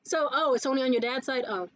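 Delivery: deflated, mildly let-down imitation; a little sad. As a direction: mimic excitement sinking into polite disappointment. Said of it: "get a little more sad".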